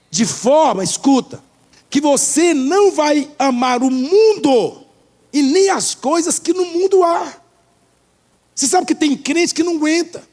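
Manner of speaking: high-pitched, emphatic pulpit exhortation; rousing sermon delivery; forceful preaching. Real, not acted. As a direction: drive the point home to the congregation. Exhorts the congregation.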